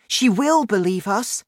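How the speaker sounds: put-on high, loud girl insisting; insistent cry. A narrator's reading. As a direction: cry it out high, contradicting the giant. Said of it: "cried Sophie".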